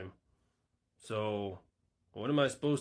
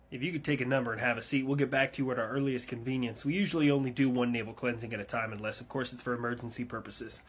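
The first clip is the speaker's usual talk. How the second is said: ordinary talk, nothing marked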